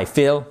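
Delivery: "feel" with a short, lax i, like "fill". Shown as a demonstration. Teacher showing learners what not to say, short I in "feel". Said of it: "avec un I court".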